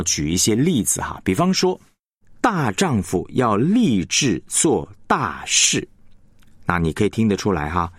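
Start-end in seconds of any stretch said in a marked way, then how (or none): 2.4-5.9 slow, weight on 大丈夫 and 大事; stress on 大丈夫 and 大事. Shown as a demonstration. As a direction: lean on 大丈夫 and 大事 slowly. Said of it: "它的重音就是落在大丈夫还有大事".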